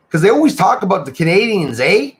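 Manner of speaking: exaggerated Canadian lilt, pitched high with a tagged-on eh; hammed-up high Canadian sing-song; mock Canadian accent. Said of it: "they say that we talk like this".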